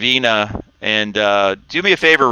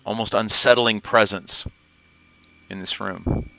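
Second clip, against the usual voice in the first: game master scene setting; 3 dB quieter than usual. A narrator's reading. GM sets the cavern scene.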